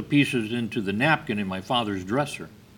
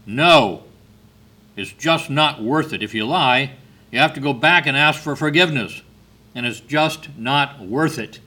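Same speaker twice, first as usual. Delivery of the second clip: firm, louder insistence, punching not and worth; emphatic; 3 semitones higher, 6 dB louder than usual. Retold or imitated. Brother firmly tells his little sister lying isn't worth it, louder and emphatic. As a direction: lean on every word like a big brother who knows. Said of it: "He was very emphatic".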